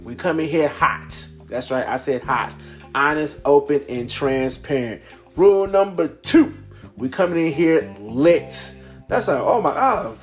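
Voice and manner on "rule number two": announcer call. Acted. Announcing house rules.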